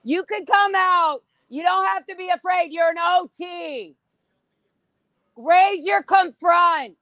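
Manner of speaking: calling out. Real, not acted. Calling to members inside building.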